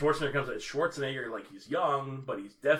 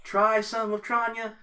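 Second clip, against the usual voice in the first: alien pitchman, raised voice slowing down; Baylock; 6 semitones higher than usual. Acted. Alien commander selling his drink as a remedy, put-on pitchman voice. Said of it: "Take it from Baylock".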